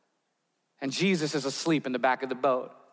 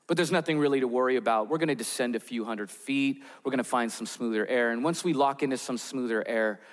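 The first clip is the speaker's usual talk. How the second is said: a pilot calmly reassuring passengers over the loudspeaker, lower and quicker; calm captain announcement; 5 semitones lower than usual. Retold or imitated. Captain calming his nervous passengers, lightly voiced reassurance. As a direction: soothe the cabin like an unflappable captain. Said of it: "waiting for the captain to calmly communicate".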